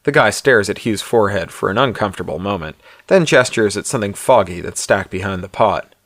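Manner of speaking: measured audiobook-style narration; story narration. A narrator's reading. Author reads his novella aloud to listeners, story narration.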